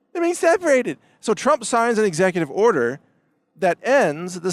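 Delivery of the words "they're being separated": much higher, whiny mock panic; mock hysterical wail. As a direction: ham up a sobbing activist. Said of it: "screaming and crying and saying".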